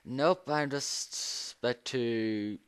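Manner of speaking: slow, sleepy drag; tired. Real, not acted. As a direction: say it half asleep, slowly. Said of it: "I'm tired as hell".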